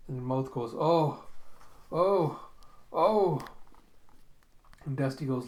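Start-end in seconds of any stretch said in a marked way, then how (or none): 0.7-3.4 mock groans, rising higher and louder; building groans. Brain's mouth straining to speak, acted building groans. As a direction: groan three times, each stronger.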